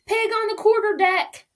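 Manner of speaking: high, loud call across the deck. Acted. First mate calling out that a pig is aboard, loud high call. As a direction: sing it out to the crew. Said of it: "called the first mate".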